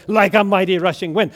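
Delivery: loud, quick response; fired-up worshipper. Acted. Woman in front row answering the pastor, stirred up. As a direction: call it back to the preacher. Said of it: "she's getting all fired up for Jesus".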